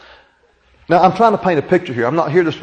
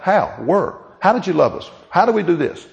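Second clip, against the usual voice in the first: mock questioning; 3 semitones higher than usual. Mocking the people's questions.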